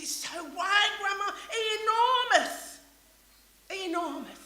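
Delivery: lightly voiced small child, high and eager; granddaughter's words. Preacher quoting granddaughter to congregation, light child voice. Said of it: "She says".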